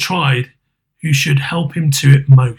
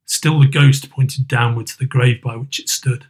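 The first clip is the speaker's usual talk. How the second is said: pleading Scrooge. Acted. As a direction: plead for a changed fate.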